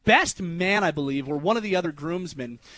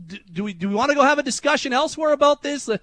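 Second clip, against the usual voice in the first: mock challenge; 8 semitones higher, 4 dB louder, faster than usual. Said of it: "I got really mad at him".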